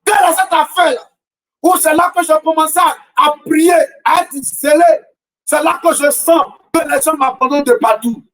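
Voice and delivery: rising preacher's cadence, questioning the crowd; impassioned sermon delivery; fervent preaching. Acted. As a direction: preach it, hammering the refrain. Preacher's rhetorical refrain.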